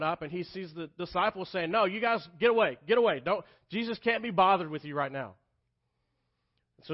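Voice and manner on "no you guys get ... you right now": louder shout of get away; shooing shout. Acted. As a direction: shoo the crowd off. Disciples shooing parents away.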